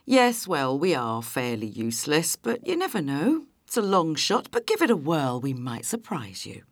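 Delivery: dripping with mock politeness; sarcastic, self-deprecating phone answer; lightly played heavy sarcasm. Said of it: "I reply with heavy sarcasm".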